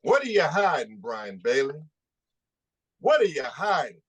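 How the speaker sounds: accusing challenge. Real, not acted. Activist publicly confronting Sheriff Brian Bailey, accusing challenge. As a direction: call out an official with a pointed, rising question.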